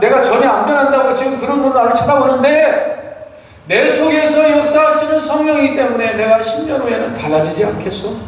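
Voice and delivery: preacher loudly re-voicing the husband's promise; fervent retelling. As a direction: drive the promise home with fire. Pastor's reply retold with fervor.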